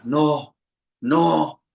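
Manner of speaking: rising panicked wail; mother screaming in panic. Retold or imitated. (grito de pánico que sube cada vez más agudo)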